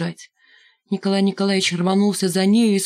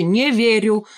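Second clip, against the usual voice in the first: firm; 3 semitones higher, slower than usual. Acted. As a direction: plant your feet on Не верю. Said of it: "твёрдо ответил тот".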